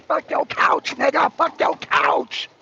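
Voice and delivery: slow, half-whispered, drawn-out mock line; a hint of a cocky rock star; a singer's quote. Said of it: "He propped up and said".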